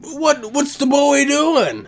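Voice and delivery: put-on an elder squinting at the boy, confused; puzzled old relative. Asking his mom what the boy on the floor is doing, high and bewildered. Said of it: "he asked his mom".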